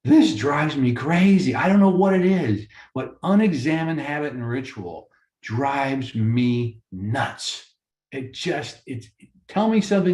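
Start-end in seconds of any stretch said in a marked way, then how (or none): 0.0-7.7 agitated. Real, not acted. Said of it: "I'm getting a little agitated".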